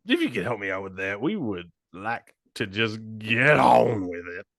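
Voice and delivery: lazy, dopey stoner voice. Retold or imitated. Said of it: "now I'm gonna try and switch into, like, a stoner voice".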